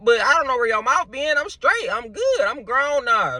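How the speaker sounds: put-on high, indignant little-kid voice. Young me refusing mama's leftovers, high kid voice. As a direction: play the picky kid refusing food, high and squeaky. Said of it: "I was a kid talking like this".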